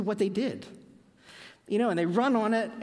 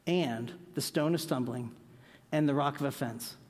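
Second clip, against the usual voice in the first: slow reading; 2 semitones lower than usual. Shown as a demonstration. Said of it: "Read it real slow".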